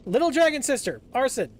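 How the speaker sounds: high, loud playful greeting; cute anime streamer. Real, not acted. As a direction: call out sweetly to a friend.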